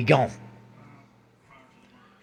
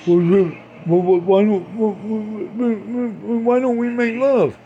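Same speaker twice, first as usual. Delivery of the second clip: slow, higher put-on lover's drawl; mock seductive voice; 4 semitones higher, much slower than usual. Comic hamming up a lover asking for sex, slow and high. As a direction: croon it like a cheesy seducer.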